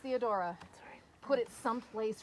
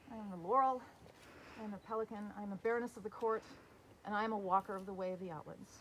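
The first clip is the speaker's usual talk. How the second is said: formal court address. Acted.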